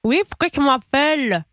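pen in teeth. Real, not acted. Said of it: "avec un stylo dans la bouche".

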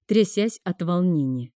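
ordinary delivery, nothing marked

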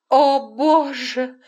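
wailing oh God; crying out. A narrator's reading. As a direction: cry out to God in pain. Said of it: "заплакала она".

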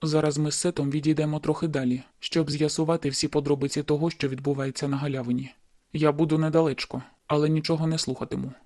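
pain breaking through. A narrator's reading. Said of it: "у його голос прорвався біль".

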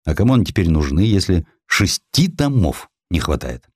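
ordinary delivery, nothing marked

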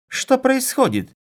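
high, loud, drawn-out outcry; indignant. A narrator's reading. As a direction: demand it in shrill-pitched outrage. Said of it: "возмутилась Ивонна".

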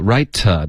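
"right" with a voiced "tuh" after it; "right" linked to a weak to; voiced schwa ending. Shown as a demonstration. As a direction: release "right" into a light "uh". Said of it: "这个呃你没发出来".

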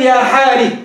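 يا حاري with the kasra held on the ر; kept kasra. Shown as a demonstration. Teacher demonstrating the kasra kept on ر. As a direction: say يا حاري keeping the ري vowel. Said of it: "إني أقدر وجوده في السياق".

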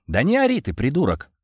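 high, irritated hushing hiss; hissed rebuke. A narrator's reading. Visitor hushes the shouting prisoner, hissed rebuke. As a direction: shush him with a mild hiss. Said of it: "прошипел я".

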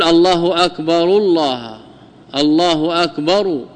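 الله أكبر linked with the ra of أكبر said with u, akbaru; الله أكبر joined, ra of أكبر sounded akbaru; linked with ra voweled. Shown as a demonstration. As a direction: say أكبر with a clear u ending, akbaru. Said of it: "بضم الراء".

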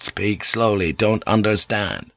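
slow, measured words; slow request. Acted. Slow request to foreign speaker.

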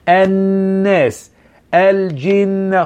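الناس with the nun held long and nasal; doubled nun. Shown as a demonstration. Teacher showing students the doubled nun, drawn out. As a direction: stretch the nun in الناس and الجن slowly. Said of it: "النون المشددة".

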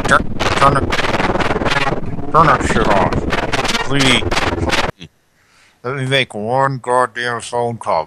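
exasperated loud outburst; angry. Acted. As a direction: bark at them to stop. Outburst at noise during call.

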